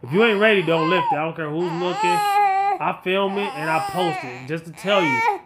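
usual speaking voice

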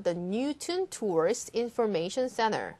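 Newton with the new drawn out; long new. Shown as a demonstration. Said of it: "new를 좀 더 길게 해주세요".

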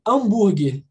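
"hambúrguer" with a silent H, opening on a nasal A; Brazilian pronunciation. Shown as a demonstration. Teacher showing how a Brazilian says it, "hambúrguer" with silent H. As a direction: say "hambúrguer" the Portuguese way, H dropped. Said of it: "Um brasileiro fala o quê?".

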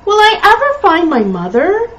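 high, plaintive puppy lament; storybook sorrow, pitched high; mournful. A narrator's reading. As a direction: wail the question sadly. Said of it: "he said mournfully".

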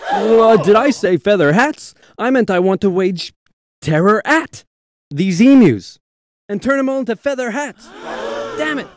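sinister villain voice. Acted. Pierce's sinister slip of tongue.

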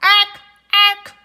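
loud, high screeching jay; squawking jay call. Acted.

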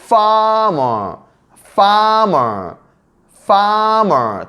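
"farmer" with a long, high first syllable that falls away; English f sound. Shown as a demonstration. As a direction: stretch the FAR in "farmer", slowly modeled for learners. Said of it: "파, 파". ("farmer"의 첫 음절을 높고 길게 끄는 발음)

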